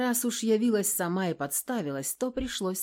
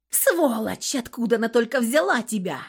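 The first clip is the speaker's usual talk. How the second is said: furious yell; 6 semitones higher, 6 dB louder than usual. Acted. Screaming at the narrator.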